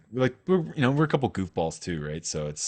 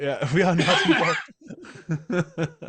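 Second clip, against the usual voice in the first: innocent act; 9 semitones higher, much slower than usual. Retold or imitated. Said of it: "act like Switzerland".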